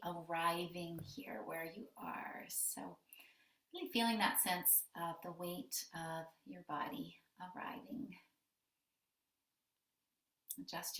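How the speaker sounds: calm meditation guidance with long pauses; guided meditation. Acted. Yoga teacher guiding the class to arrive after the bell, calm guided meditation. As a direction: settle listeners gently into their breath, unhurried.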